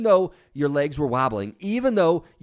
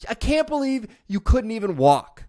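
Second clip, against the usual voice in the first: put-on high, loud sneering ridicule of a toddler; taunting a baby who fell, scornful and high; mocking scorn; 9 semitones higher, 3 dB louder than usual. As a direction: jeer at the baby like a cruel critic. Mocking a baby's first step.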